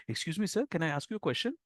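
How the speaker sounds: softly, deferentially asked; polite request. Acted. Stranger approaching someone dressed for respect, soft and polite. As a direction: approach with hushed, respectful courtesy.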